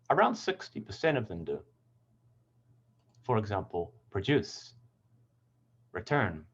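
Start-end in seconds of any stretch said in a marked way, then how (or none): 4.1-6.4 "produce, return" stressed on DUCE and TURN; light first syllable, firm second in "produce" and "return"; "produce, return" as verbs, stressed at the back. Shown as a demonstration. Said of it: "second syllable stress".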